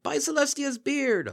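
slow, high, booming shout; bellowing. A narrator's reading. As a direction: bellow each word, drawn out.

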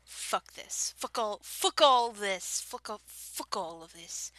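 badly faked English accent; fake British accent. Shown as a demonstration. Warming up for the challenge, fake British accent. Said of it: "fake British accent, fake English accent".

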